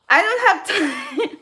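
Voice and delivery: mock irritated brush-off, laugh creeping in; a touch of mock annoyance through a laugh; imitating an irritated friend. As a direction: quote him flatly as he starts to crack up. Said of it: "now he's going to be saying".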